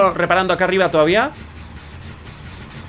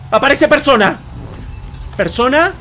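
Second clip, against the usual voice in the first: raised, exclaimed announcement; excited discovery; 4 semitones higher than usual. Real, not acted. Streamer showing viewers the radar find, excited discovery.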